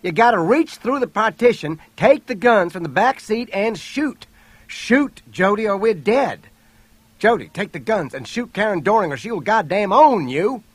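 high, loud, desperate orders; screaming. A narrator's reading. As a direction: shout urgent commands under fire. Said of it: "Herbert screamed".

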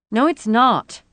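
high, loud protest; upset cry. A narrator's reading. Rosie rejecting Gert's comfort, crying out. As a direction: cry it out in sharp denial. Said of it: "Rosie cried".

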